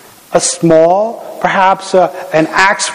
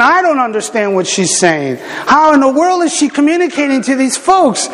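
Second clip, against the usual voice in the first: inner doubt; 8 semitones higher than usual. Retold or imitated. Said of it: "and I'm going".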